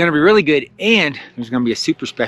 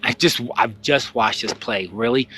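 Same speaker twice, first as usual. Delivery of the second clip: unenthused; 4 semitones lower, 4 dB quieter than usual. Retold or imitated. Expecting boredom at second showing.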